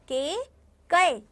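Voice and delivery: के then कै, both drawn out slowly; slow contrast. Shown as a demonstration. Teacher slowly contrasting the two vowel signs. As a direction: stretch के and कै side by side. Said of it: "आया समझ में मात्रा में?".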